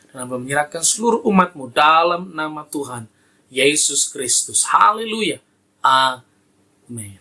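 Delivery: earnest pastor's prayer, rising on the pleas and settling to Amen; fervent prayer. Real, not acted. Pastor prays to God for the congregation and the sick, fervent prayer. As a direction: pray over the congregation, drawing out key words.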